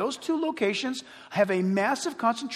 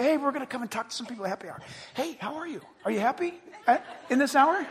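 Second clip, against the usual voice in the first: mock reporter; 3 semitones higher, much faster than usual. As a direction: play a chirpy TV reporter, rattling it off. Mock reporter at happy hour.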